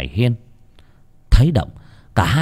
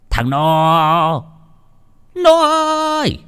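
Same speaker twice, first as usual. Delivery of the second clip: calling out; 7 semitones higher, slower than usual. Acted. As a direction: bellow for the servant boy. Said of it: "lão Đởm chõ mõm ra ngoài cửa".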